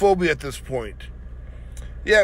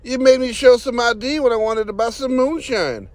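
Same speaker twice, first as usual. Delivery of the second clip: mock hillbilly voice; 2 semitones higher, 5 dB louder than usual. Mocking the auditor's complaint.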